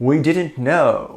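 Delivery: slow, whiny mock of a corporate excuse; mocking apology. Mocking the network's apology to viewers, sarcastic parroting. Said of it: "apologies where it's like".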